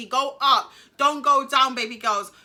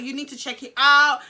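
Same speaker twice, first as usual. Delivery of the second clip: louder, firm insistence; insistent demand; 8 dB louder than usual. Retold or imitated. Teen insisting the nurse examine her, loud. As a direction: demand she check it.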